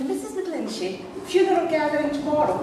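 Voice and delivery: high posh receptionist; posh phone voice. Retold or imitated. Receptionist confirming a booking to the caller, high and posh. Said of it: "I decided I'd be rather posh".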